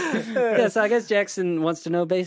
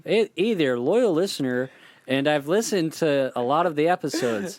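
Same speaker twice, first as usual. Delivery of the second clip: put-on Canadian accent. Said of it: "should I read in a Canadian accent".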